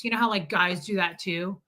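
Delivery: usual speaking voice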